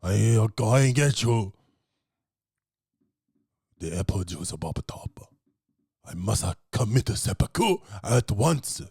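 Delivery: slow, over-formal hammed-up regret; lightly voiced grovelling waitress; theatrical self-blame, played for laughs; mock-dramatic apology. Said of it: "She's like".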